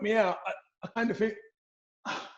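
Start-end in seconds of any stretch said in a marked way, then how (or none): 2.1-2.3 slow, high, dazed Bajan-free musing; dazed surprise. Retold or imitated. Boxer recalling the knockdown, slow dazed high voice. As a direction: drawl it out like you just hit the canvas.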